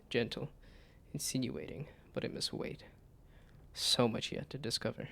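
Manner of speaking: measured, even reading of game text; game narration. Acted. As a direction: read it like a storybook narrator. Reads game narration aloud.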